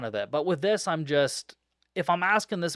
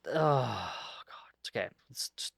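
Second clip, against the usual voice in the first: pretend calming whisper; 4 dB quieter than usual. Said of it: "deep breaths".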